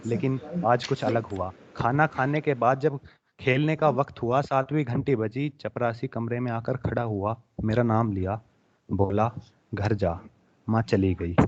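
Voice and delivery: emotional Hindi poetry recital; heartfelt recitation of a poem about a lost mother. Acted. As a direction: recite the poem with feeling to an audience. Recites his poem Sapna.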